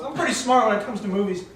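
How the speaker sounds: lightly self-satisfied boast; pompous. Acted. Man showing off his movie knowledge to her, pompous. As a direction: puff yourself up a little. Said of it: "I leaned back with a pompous pose".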